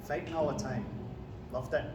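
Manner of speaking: put-on Macbeth in a Scottish accent; broad Scottish accent. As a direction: speak as a Scottish warrior king, Scottish accent. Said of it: "Do you want a quick example?".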